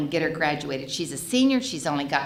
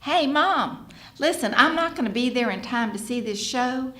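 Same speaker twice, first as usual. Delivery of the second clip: breezy nonchalance; 5 semitones higher than usual. Retold or imitated. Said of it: "As if nothing had happened".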